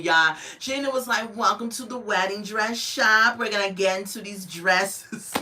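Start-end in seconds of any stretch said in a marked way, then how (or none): 1.4-5.3 lightly imitated New Jersey Italian accent; attempted New Jersey Italian accent. Bridal consultant welcoming customers to the dress shop, rough New Jersey Italian accent. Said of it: "don't even know how to do her accent".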